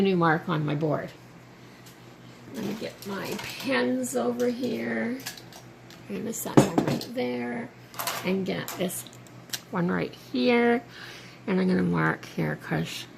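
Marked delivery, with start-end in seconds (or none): 2.6-13.0 talking round a pen in teeth; muffled by a pen held in mouth. Real, not acted. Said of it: "I'm talking funny 'cause I got the end of the pen in my mouth".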